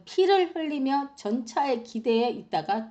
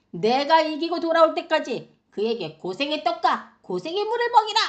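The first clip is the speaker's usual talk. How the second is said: angry royal command; 5 semitones higher than usual. Acted. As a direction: build to a high, punched final order. Acts out king sentencing prophet.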